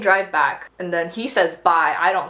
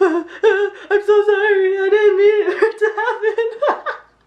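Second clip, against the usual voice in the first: high, loud mock bawling wail. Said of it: "this bitch is bawling".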